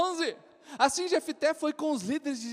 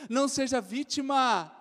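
preaching shout. Real, not acted. Preacher exhorting congregation.

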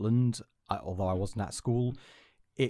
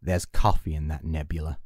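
lower, put-on starship captain voice; captain quote; 6 semitones lower, 5 dB louder than usual. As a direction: deliver it like a starship captain giving orders. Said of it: "it could have been something like".

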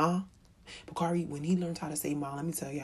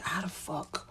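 scared whisper; 5 dB quieter, slower than usual. Retold or imitated. Recalling her fear.

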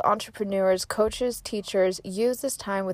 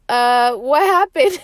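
puzzled partner; 5 semitones higher, 7 dB louder than usual. Retold or imitated. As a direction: play the boyfriend caught off guard, slowly. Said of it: "And he was like".

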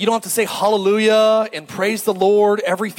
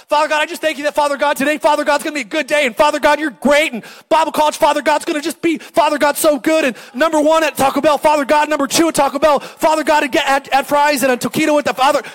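lightly higher, louder, rattling out a churchy prayer; mock Father Godder; 5 semitones higher, 4 dB louder than usual. Imitating a Bible college student praying, mildly hammed-up. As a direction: parody of a student who says Father God constantly. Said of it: "every three words, it's "Father God".

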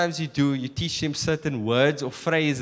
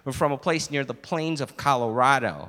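lower, matter-of-fact American statement; plain-spoken American customer; American accent; 4 semitones lower, 5 dB quieter than usual. Acted. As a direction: explain your origins in an American accent. American explains his origin, server mimics.

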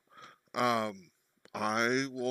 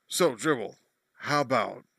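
choppy connection; 4 dB louder than usual. Real, not acted. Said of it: "I heard "so Dribble" and then "bow".

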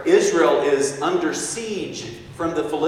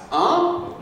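a sharp, far higher huh; startled huh. Acted. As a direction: catch the words and balk. Saul hears the new chant.

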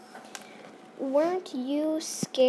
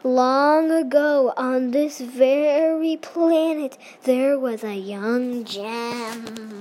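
scary storyteller voice; 6 dB louder than usual. Acted. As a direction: draw them into a ghost story. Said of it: "the f-, scary voice".

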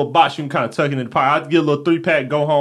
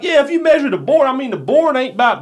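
imitating friend; 10 semitones higher, 4 dB louder than usual. Friend quoted again, higher.

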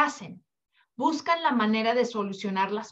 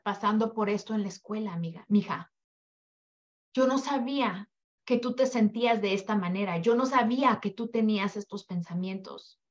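listening mother; 4 semitones lower than usual. Retold or imitated. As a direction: gently take in what your daughter tells you.

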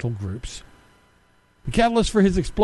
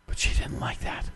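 sly unvoiced whisper, much softer; whispered aside; 10 dB quieter than usual. Real, not acted. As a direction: drop to a conspiratorial whisper. Sarcastic aside in a rant.

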